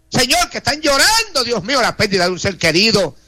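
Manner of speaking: earnest pleading prayer, voice rising and falling; fervent prayer. Acted. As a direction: intercede for each name before God. Prayer for the police. (oración ferviente e implorante)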